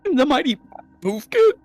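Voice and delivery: talking through a burp; words pushed out around a burp. Real, not acted. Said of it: "Sorry, I burped".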